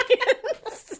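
high word squeezed out through laughter; laughing. Real, not acted. Colleague admitting a silly hiring wish, cracking up.

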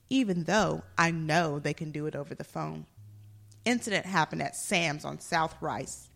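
dramatic review reading; actor's voice. Pretend. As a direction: ham up the angry complaint. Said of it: "I'm gonna be in my actor's voice".

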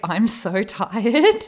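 slow, drawn-out with a laugh; mock tired. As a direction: stretch the tiredness out. Her reply in the elevator.

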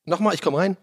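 usual speaking voice

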